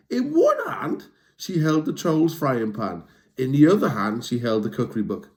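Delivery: lively storybook read-aloud; reading to children. A narrator's reading. Reading a troll story to young listeners, lively. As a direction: tell it like bedtime to kids. Reads a picture book aloud.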